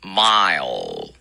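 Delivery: mile with a dark L. Shown as a demonstration. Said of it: "我们再来一遍".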